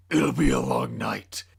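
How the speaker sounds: a hint of a dark hero's voice; Batman voice. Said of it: "said the Crusader who's caped".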